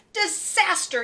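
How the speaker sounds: a touch of a wail; half-hearted Santa wail; mild mock wail. Santa wailing about the ruined Christmas, mildly. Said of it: "he wailed".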